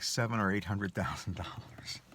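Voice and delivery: whispered, like a secret; whispered reveal. Real, not acted. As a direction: hush it like you're telling a secret.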